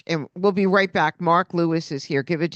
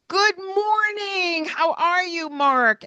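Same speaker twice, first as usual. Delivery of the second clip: much higher, slow, sing-song hello; cheerful greeting; 11 semitones higher, slower than usual. Retold or imitated. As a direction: greet each kid like it's the best part of your day. Cheerful cross guard greeting kids.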